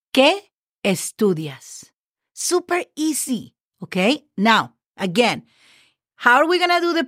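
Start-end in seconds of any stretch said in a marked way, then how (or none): 0.1-1.9 "¿Qué estudias?" slow, long "Qué", falling end; slow model phrase. Shown as a demonstration. Teacher reading the finished question to students, slow. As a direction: say it slowly so they can copy. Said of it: "Question mark".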